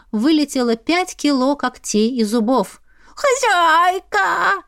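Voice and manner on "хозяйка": long, high, drawn-out wail of a cat; slow, high, wailing cry; howling wail. Acted. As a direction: howl it like a wounded cat calling its owner. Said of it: "провыл фамильяр".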